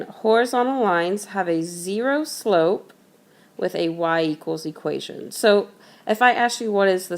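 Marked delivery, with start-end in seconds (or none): 0.0-5.3 measured repeat for note-taking; slow dictation. Shown as a demonstration. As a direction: repeat it deliberately, leaving time to write. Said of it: "I'll say this slowly".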